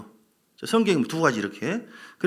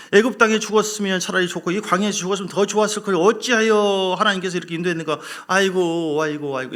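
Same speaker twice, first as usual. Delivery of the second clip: mock wailing; 2 semitones higher, 4 dB louder than usual. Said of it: "밤새도록 통곡해".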